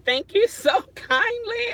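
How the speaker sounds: real amused thanks; laughing thanks. Real, not acted. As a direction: giggle through the thank-you.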